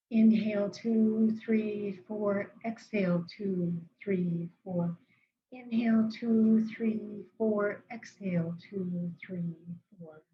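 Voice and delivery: calm, paced breath counting, fading on each exhale; guided breathing count. Shown as a demonstration. Therapist leading clients in square breathing, calm and paced. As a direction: count them through the breath gently. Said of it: "practice along with me".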